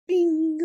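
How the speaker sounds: notification bing. Retold or imitated. Imitating phone notification sound.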